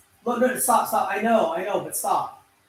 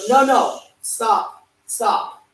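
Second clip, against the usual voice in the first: sudden high squeaky stop, stop; pleading stop, pitched way up; 7 semitones higher, 4 dB louder, slower than usual. Real, not acted. Pleading with interrupter mid-recording.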